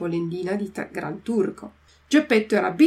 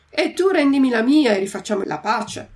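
raised demand; 4 semitones higher, 4 dB louder than usual. Acted. Quarrel, wig swap demand.

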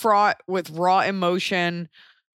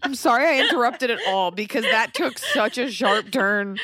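laughing, higher-pitched apology; talking through laughter; 4 semitones higher than usual. Real, not acted. Host apologises for interrupting the sad story, laughing. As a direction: apologise while cracking up.

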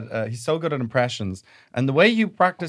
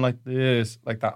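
slowed-down demo of a lower voice; lower, slower; 2 semitones lower, 3 dB quieter, slower than usual. Shown as a demonstration. Impressionist's coach showing the sound, lower and slower. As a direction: drag it out and sink down. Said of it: "it's lower. It's kind of lower, slower".

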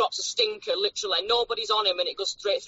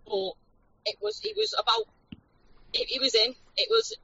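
through a phone speaker; tinny phone line sound; on speakerphone. Real, not acted. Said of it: "So you're on speakerphone now".

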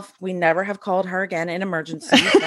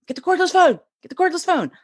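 frantic high-pitched mock yell; imitated yelling; 9 semitones higher, faster than usual. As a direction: act out a husband freaking out. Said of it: "yelling to my son".

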